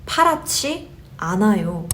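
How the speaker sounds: 파랗지 said as "pa-ra-chi" with an aspirated ch. Shown as a demonstration. Teacher shows it's not so blue, aspirated chi. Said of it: "G sound becomes a 치 sound".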